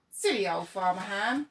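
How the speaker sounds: loud sing-song jeer; jeering shout. Acted. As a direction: crows jeering while they eat corn.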